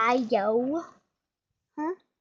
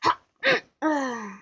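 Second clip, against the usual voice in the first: mom's laugh. Retold or imitated. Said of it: "She just goes".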